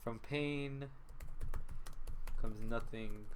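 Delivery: slow, measured orc sage voice with long pauses; lightly voiced mystic, drawn out; a wise orc dealing out riddles, unhurried; cryptic sage. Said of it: "he answers in the most cryptic way possible".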